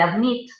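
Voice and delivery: adMIT, stressed on the final syllable; stress on last syllable. Shown as a demonstration. Teacher explaining consonant doubling, admit stressed on the last syllable. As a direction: put the weight on MIT in admit. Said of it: "si cae en esa última sílaba".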